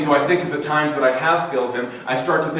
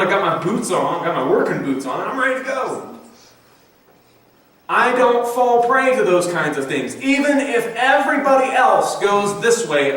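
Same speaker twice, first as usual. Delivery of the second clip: brazen boast; 2 semitones higher than usual. Retold or imitated. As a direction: puff up with working-boots bravado. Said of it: "brazen quality to Peter's words that I think is easy to identify with".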